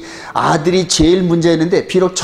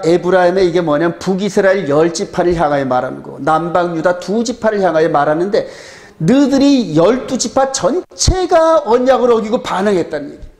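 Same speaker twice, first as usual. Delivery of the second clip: ordinary delivery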